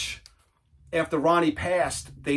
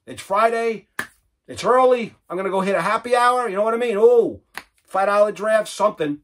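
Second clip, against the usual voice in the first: excited; 5 semitones higher, 4 dB louder than usual. Real, not acted. Excited about happy hour.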